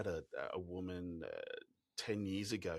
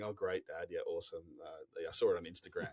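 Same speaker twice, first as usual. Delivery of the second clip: put-on unimpressed teenagers; 2 semitones lower, 3 dB quieter than usual. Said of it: "they're going".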